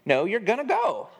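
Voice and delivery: a frustrated dad overruling his son, high and firm; frustrated retort. Retold or imitated. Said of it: "getting very frustrated and".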